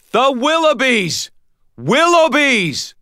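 high, drawn-out urgent shout. A narrator's reading. Harry pointing at ceiling about trapped neighbours, urgent shout. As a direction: call out the neighbours' name in alarm. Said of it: "and shouted".

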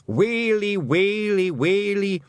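high, long-drawn Scottish keening; hammed-up cries of woe; wailing. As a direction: wail each word in a rising lament. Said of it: "lost in the wails and groans".

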